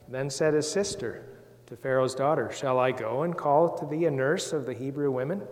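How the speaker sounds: put-on measured Bible reading for children; scripture reading. Reads the Bible aloud to children.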